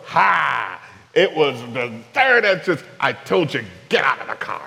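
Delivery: mock smug husband rubbing it in; hammed-up I-told-you-so; gloating. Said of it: "stop at the second entrance and go".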